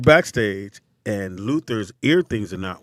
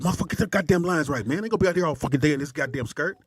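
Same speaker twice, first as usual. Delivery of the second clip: mock angry rant; 5 semitones higher, 3 dB quieter, faster than usual. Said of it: "And he said".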